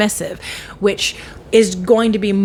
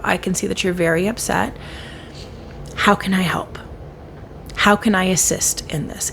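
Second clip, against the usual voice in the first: soft, lower, gentle acknowledgement; softly validating someone who is upset; calm compassionate reply; 3 semitones lower, 3 dB quieter than usual. Shown as a demonstration. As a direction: meet their upset with steady calm. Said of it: "witness that they are experiencing that and go".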